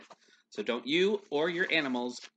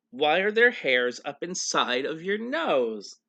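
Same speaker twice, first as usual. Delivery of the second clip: put-on bright, loud rapid-fire child questions; eager questions; 3 semitones higher, 5 dB louder than usual. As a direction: pile up the whys with glee. Ada's string of questions.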